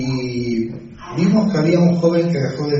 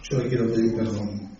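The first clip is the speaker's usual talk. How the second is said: a hint of a weeping mother, softer; tearful plea; 7 dB quieter than usual. Mother apologizing to the pastor, lightly voiced tearful plea. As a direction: voice her begging forgiveness through tears, softly. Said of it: "me viene llorando, pero llorando".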